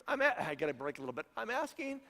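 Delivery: mock timid teenager asking the chief; hint of a young Daniel asking permission; little teenage voice. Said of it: "get my little teenage voice".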